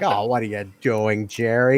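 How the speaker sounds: lightly voiced exasperated commentator; Lance Russell. Commentator pleading with Jerry, mock exasperation. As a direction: imitate a put-upon announcer complaining. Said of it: "Lance Russell always be like".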